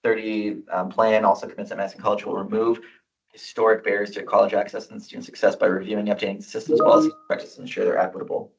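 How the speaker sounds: rushing through the resolution text; fast reading. Real, not acted. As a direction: read it aloud quickly. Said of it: "I'll try to read as fast as I can".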